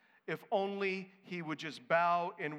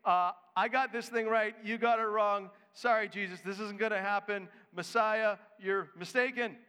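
cocky Peter; 3 semitones higher, 3 dB louder than usual. Retold or imitated. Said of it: "He's saying".

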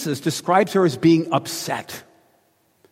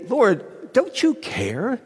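mock indignant; 3 semitones higher than usual. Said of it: "She's saying".

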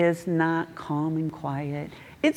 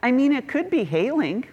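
optimistic JP; 7 semitones higher than usual. Retold or imitated. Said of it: "He goes".

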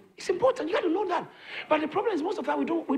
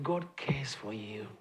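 slow, hesitant whisper of "God cares for you"; timid whisper; 11 semitones lower, 10 dB quieter, slower than usual. Shown as a demonstration. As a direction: say "God cares for you" barely above a breath. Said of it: "some of you don't say it like".

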